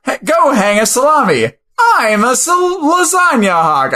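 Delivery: mock your cohost's over-the-top palindrome voice; imitating cohost. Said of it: "You said".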